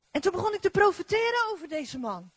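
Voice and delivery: ordinary talk, nothing marked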